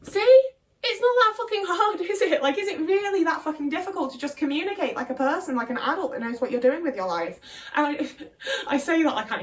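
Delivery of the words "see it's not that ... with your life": high, loud, laughing "see?" at the world; triumphant outburst. Retold or imitated. Vlogger venting about flaky friends, triumphant high loud outburst. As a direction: crow at everyone that it's this easy. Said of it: "And now I'm like".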